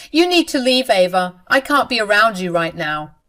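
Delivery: a mild acted outburst, telling her to go; firm order. Husband orders his sister to leave the house, firm and loud.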